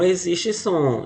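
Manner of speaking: stretched, stressed "existe som"; slow, stressed "existe som"; 1 emphatic. Shown as a demonstration. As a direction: lean slowly on "existe som". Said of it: "A letra H no português não".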